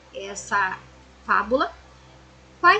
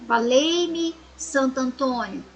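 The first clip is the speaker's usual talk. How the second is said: Valei-me pitched up with a fall on Santo Antônio; exclamation tone; slower than usual. Shown as a demonstration. Teacher showing the class how an exclamation sounds, rising call. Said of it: "Travessão".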